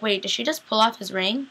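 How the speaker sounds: rising, stunned question; startled disbelief. Retold or imitated. Viewer reacting to Meredith taking the ring, startled. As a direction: ask it as if you can't believe your eyes. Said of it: "and I'm like".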